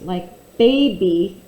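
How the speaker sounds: put-on "baby" slowly, drawing out the final long E sound; long E stretched. Shown as a demonstration. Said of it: "it says the long E".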